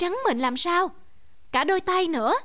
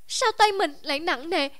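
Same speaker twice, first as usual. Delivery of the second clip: alarmed; 4 semitones higher than usual. Acted. Girl finds hands weak.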